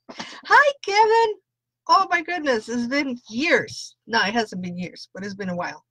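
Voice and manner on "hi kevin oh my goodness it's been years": high-pitched, delighted squeal of a hello; excited greeting. Real, not acted. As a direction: greet a long-missed friend, starting very high and coming down. Greets a viewer not seen lately.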